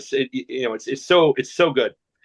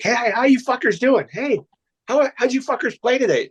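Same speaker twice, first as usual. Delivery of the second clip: much higher, hammed-up hearty club guy; club member greeting; 12 semitones higher, 3 dB louder than usual. Members greeting the visiting golfers in a hammed-up higher voice. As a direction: play the rowdy member hailing his buddies. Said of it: "was called a fucker".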